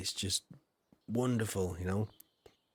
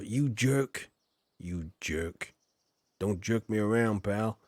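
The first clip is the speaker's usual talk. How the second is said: mock American; 2 semitones lower, slower than usual. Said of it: "Americans say jerk".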